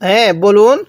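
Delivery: slow drawn-out Quranic chanting; tajweed recitation. Shown as a demonstration. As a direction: recite slowly for students to echo. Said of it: "কিভাবে পড়ব".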